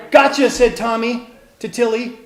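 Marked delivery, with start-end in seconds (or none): 0.1-0.5 higher, louder playground gotcha; loud, high story-time character shout; playful taunt. A narrator's reading. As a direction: call it out gleefully in a game of tag. Playful tag game in story.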